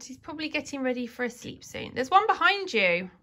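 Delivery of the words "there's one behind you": cat voice. Real, not acted. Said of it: "talks to their cat in a cat voice".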